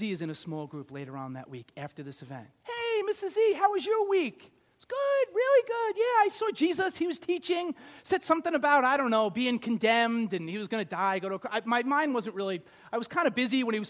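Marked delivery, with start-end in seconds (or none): 2.6-4.5 high, bright churchy greeting; high chirpy friend. Acted. Small group friend greeting Missus E, high and cheery. 4.8-11.5 high, breezy gossiping voice; airy chatty lady. Acted. Missus E telling her small group, high and breezy.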